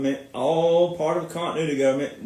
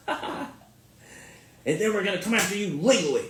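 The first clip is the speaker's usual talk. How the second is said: mocking quote; 6 dB quieter, faster than usual. Mocking Iran's threat.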